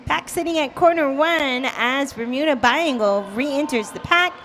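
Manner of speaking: high, loud play-by-play call; excited play-by-play. Real, not acted. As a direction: call the action with rising excitement.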